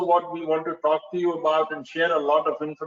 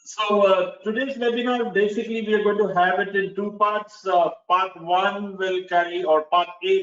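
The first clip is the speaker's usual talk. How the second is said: louder; 2 semitones higher than usual. Real, not acted. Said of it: "let me try and, uh, increase my voice".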